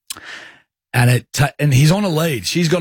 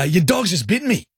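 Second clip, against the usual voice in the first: pitched-up indignant complaint; retold indignation; 6 semitones higher than usual. Confronting the owner after the bite, retold indignation. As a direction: re-enact an affronted protest.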